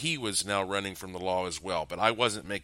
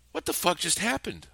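shocked; 9 semitones higher than usual. Acted. Shocked hostage asks.

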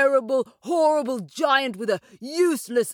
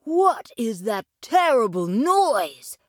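high, slow alarmed question; alarmed boy; 5 semitones higher, slower than usual. Acted. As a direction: draw it out in boyish dismay. Jack hears giant stamping outside.

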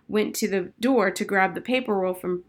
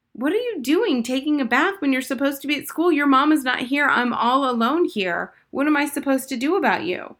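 high, raised voice of the cook through a door; cook calling; 6 semitones higher, 4 dB louder than usual. A narrator's reading. Cook knocking on the bathroom door, high and worried.

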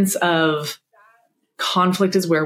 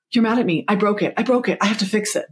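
a mild imitation of a scared inner child, a bit higher; panicked little girl; 3 semitones higher, faster than usual. Mother voicing her inner child's panic over a note, hint of fear. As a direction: plead like a frightened little girl who broke something. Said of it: "the little girl in me that's like".

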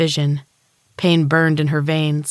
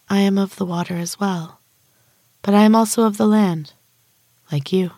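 soft, bell-like higher voice; tinkly bell voice; 4 semitones higher than usual. Acted. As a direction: speak lightly, like chiming bells. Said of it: "in a soft voice like the tinkling of bells".

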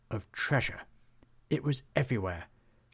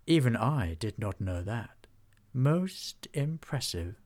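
stately dragon. Acted. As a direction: speak like an ancient, gracious dragon. Dragon speaks to Hobgob.

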